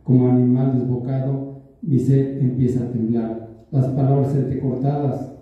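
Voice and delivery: measured poetry reading, line by line; poem recitation. Acted. Poet reads his love poem Crucigrama to listeners, measured recitation. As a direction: recite your own love poem, each line set apart.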